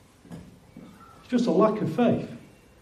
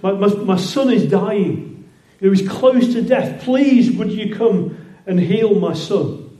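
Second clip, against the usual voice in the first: begging father; 4 dB louder, slower than usual. Retold or imitated. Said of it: "he begs Jesus".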